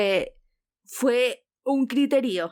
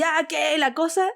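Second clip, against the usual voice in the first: mock insult; 5 semitones higher, slower than usual. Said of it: "empezó a responderle a putear así".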